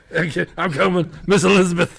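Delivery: high-pitched mock dying mouse; squeaky mouse role. Host voicing the mouse having a heart attack, high mock panic. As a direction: play a mouse in comic cardiac distress.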